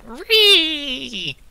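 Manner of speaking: high, loud drawn-out shriek; shouted screech. Acted. Game master voices cultists responding to a threat, shouted screech. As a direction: screech it like an enraged mob. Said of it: "They respond by just shouting".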